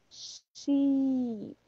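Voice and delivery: SHEEP with the EE stretched out; long I. Shown as a demonstration. Teacher repeating the long I for students, sheep drawn out. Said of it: "Aqui nós temos um I longo".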